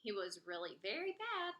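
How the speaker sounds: lively picture-book read-aloud with character voices; story narration. Acted. Reading a rhyming story aloud to kids, lively narration. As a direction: read it to children, bouncy and rhymed.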